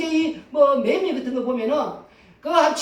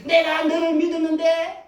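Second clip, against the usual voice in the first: lightly voiced hurt reproach, a bit higher; a hint of wounded accusation; betrayed friend; 4 semitones higher than usual. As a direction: mildly play someone let down by a friend. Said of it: "어떤 사람 그러지 않습니까?".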